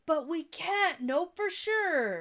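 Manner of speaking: high, drawn-out mock whine; mock protest. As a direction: stretch it out in exaggerated doubt. Mimics own earlier doubting protest.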